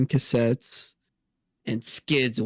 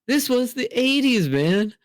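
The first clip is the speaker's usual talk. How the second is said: higher, lightly hammed-up cool dad bragging; quoting the dad; 5 semitones higher than usual. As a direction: boast about the wild old days, pitched up. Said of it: "we get the line of the episode".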